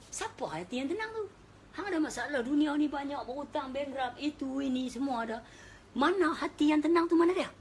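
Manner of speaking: loud, high rhetorical challenge; preaching at full force. Acted. Preacher challenging the congregation about calm hearts, loud and forceful. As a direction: drive the question home. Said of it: "preacher challenging congregation".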